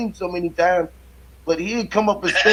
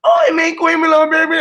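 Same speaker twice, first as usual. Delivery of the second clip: higher and louder mock French gibberish, imitating the ladies; 10 semitones higher, 5 dB louder than usual. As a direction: squeal fake French like the hair braiders. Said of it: "They like".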